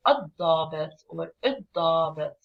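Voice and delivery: "الضابط or الضابط" with a doubled heavy D; no L in "الضابط or الضابط", a held hard D instead; stressed first letter. Shown as a demonstration. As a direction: lean on the ض of "الضابط or الضابط". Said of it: "We stress on the first, uh, letter".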